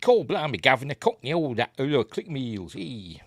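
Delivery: hammed-up southern English Cockney, starting high; mock Cockney accent. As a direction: do a jokey put-on Cockney that trails off. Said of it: "Maybe I'll do a southern accent".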